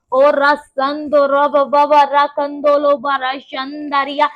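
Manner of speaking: fervent tongues prayer; speaking in tongues. Real, not acted. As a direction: pray in tongues, steady and rapt.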